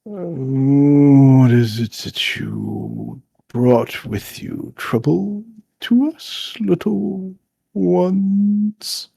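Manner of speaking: slow, drawn-out ancient creature; lightly voiced river lord, stretching the words; deep-voiced river lord. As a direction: question them slowly and ponderously. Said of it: "with a deep voice, he goes".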